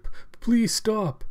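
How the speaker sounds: high, slow, stammered plea; desperate pleading. Acted. Old man begs cyborg to stop, desperate pleading. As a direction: beg with a stumbling start.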